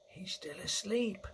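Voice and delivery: hushed, high giant voice; whispered. A narrator's reading. BFG to Sophie beside a sleeping giant, soft whisper. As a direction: whisper it so the sleeper stays asleep. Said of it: "the B F G whispered".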